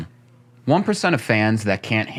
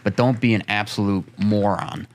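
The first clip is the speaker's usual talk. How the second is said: ranting. Real, not acted. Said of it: "End rant".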